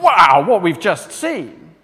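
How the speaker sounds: drawn-out, amazed "wow"; awed wow. Acted. Preacher voicing an overwhelmed audience's ovation, awed. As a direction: slowly marvel at it. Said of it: "an overflow of a kind of".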